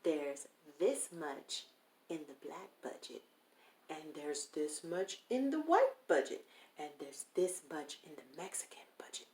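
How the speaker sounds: a hint of a condescending producer; imitating the condescending producer. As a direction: spell it out like a patronizing boss talking down. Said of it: "this is how he's talking to me".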